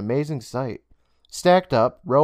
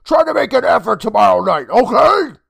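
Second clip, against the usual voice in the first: higher, louder motherly voice, scolding; 11 semitones higher, 9 dB louder than usual. Acted. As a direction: tell your son off, gently. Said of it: "his mother scolded him".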